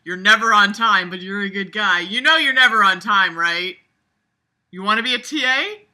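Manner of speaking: lightly voiced smug teacher nagging a student; mock teacher. Mocking Mister Hanson talking to James, lightly voiced smug teacher. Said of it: "excuse for Mister Hanson to tell James, like, you know".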